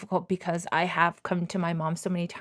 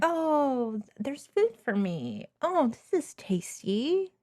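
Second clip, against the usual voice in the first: pretend grateful mom; 4 semitones higher than usual. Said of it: "Not like".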